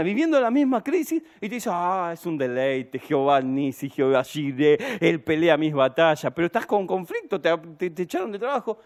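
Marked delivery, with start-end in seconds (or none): 1.7-6.3 lower, contented mock believer; creyente sereno. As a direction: savour it serenely, in contrast to the wailing. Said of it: "le preguntás a otra misma persona". (imitando a un creyente sereno, voz grave)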